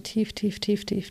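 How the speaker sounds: soft spa whisper. Acted. Breathing cue within meditation.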